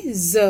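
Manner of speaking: ज। said as a buzzing za, not ja; za sound. Shown as a demonstration. Teacher to students, demonstrating the nukta za. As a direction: turn ज। into a buzzing z. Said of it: "ज के नीचे बिंदी लगी".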